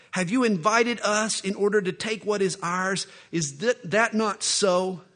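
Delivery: loud menacing threat; bully her into it; threatening Philistines. Acted. Philistines threaten Samson's wife.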